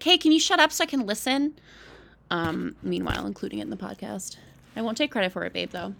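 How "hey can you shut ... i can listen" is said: louder and higher, playfully snapping; annoyed shushing. Retold or imitated. Host retells shushing her boyfriend during the show, mock-annoyed loud. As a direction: tell him to hush so you can hear the show. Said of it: "And I was like".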